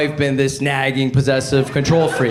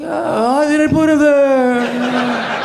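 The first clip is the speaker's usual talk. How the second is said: acted quote; 10 semitones higher, much slower than usual.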